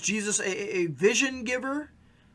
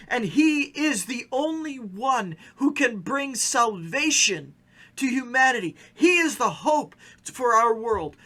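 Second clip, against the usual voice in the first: preaching; slower than usual. Acted. Pastor proclaiming who Jesus is, building to full preaching. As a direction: build it like a sermon climax.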